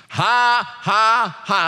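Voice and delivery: mock chuckle in spaced-out "ha"s; celestial chuckle. God laughing at the devil, mock celestial chuckle. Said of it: "Imagine that celestial chuckle".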